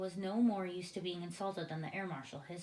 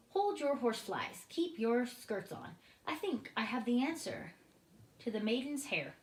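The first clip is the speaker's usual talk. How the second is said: higher, odd-timbred friendly giant; kindly giant voice; BFG giant; 4 semitones higher, 4 dB louder than usual. A narrator's reading. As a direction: play the giant calming everyone down.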